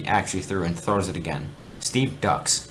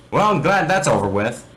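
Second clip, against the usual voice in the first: smug relief; 7 semitones higher, 6 dB louder than usual. Acted. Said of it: "he says".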